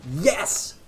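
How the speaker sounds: loud, high mock delight at bad luck; sarcastic cheer. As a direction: cheer it sarcastically, as if losing is great. Sarcastic cheer at opponent's sweeper.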